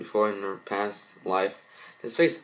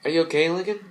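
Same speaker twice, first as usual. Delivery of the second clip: concerned question; 8 semitones higher, 5 dB louder, faster than usual. Acted. Parent comforting crying child.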